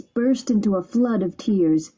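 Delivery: ordinary delivery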